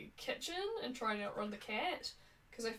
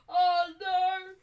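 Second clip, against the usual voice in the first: shout; 7 semitones higher, 14 dB louder than usual. Real, not acted. Panic at bad ending.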